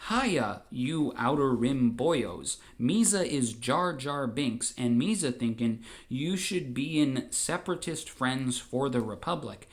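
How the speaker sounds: a hint of a silly Gungan; Jar Jar impression. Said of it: "I distinctly heard him say".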